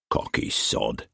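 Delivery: whispered under the breath; amused whisper. A narrator's reading. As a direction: mutter it in grudging amusement. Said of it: "amused in spite of himself".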